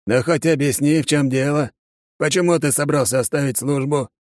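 lightly voiced commander, demanding; gruff colonel. A narrator's reading. Colonel questioning the soldier, demanding. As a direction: press for an answer.

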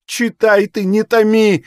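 mother crying out for the letter to be read; anguished cry. A narrator's reading. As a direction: beg her to read, unable to wait. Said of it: "закричала Ильинична".

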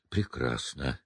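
catching her breath; breathless, panting word. Acted. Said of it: "переводя дух".

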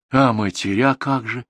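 fretting. A narrator's reading. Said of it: "не успокаивалась Дуковна".

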